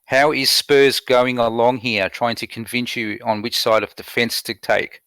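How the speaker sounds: slow, carefully spelled-out question; measured, deliberate re-asking; clearer repeat. Real, not acted. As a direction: repeat it slowly for someone who missed it. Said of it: "Sorry, can you repeat that?".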